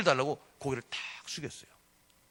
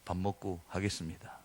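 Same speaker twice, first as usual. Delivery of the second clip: smiling reply; 9 semitones lower than usual. Retold or imitated. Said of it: "웃으면서".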